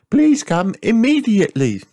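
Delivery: high, loud sighing rabbit lady; Miss Rabbit sighing. A narrator's reading. Miss Rabbit sighs to Mummy Pig, high and loud. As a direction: sigh it out as the fussy rabbit. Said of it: "she said into her phone".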